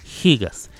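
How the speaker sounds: GIGAS as Spanish "higas"; gigas castellanizado. Shown as a demonstration. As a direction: open GIGAS with a jota. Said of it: "como se pronuncia en español". (gigas dicho "jigas", con jota)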